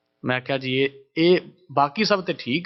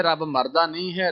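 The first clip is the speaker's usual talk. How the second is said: ordinary talk, nothing marked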